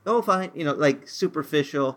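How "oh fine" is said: bright put-on fine, a bit higher; faked cheerfulness. Someone asked how they are, hiding it behind a cheery fine. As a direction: brush off the question with a cheery mask. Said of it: "We, we fake it".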